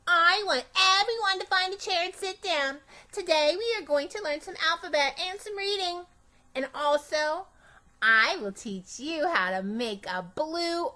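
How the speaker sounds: put-on a kid on the teacher's chair addressing an empty class; playing teacher. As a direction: order the class to sit like a little teacher. Girl pretending to be teacher.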